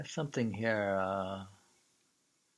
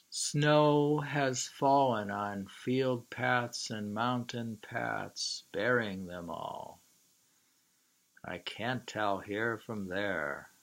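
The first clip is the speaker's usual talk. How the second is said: slow, louder recitation; poem reading; 3 dB louder, slower than usual. Acted. Lecturer reciting a snow poem to students, slow and solemn. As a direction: read each line slowly and weigh it.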